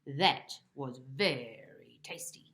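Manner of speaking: slow, low voiceless whisper; sly whispered gloat. Acted. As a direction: whisper it back smugly. Bob mocking cat, whispered.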